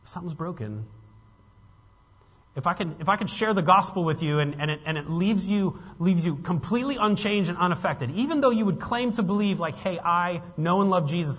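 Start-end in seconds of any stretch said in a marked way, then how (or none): 2.6-11.4 louder, higher, urgent pulpit voice; impassioned preaching. Real, not acted. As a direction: press the congregation hard with conviction.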